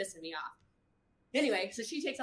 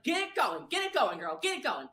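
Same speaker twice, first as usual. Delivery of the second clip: coaching urging; 3 semitones higher than usual. Retold or imitated. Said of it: "trying to coach her through it".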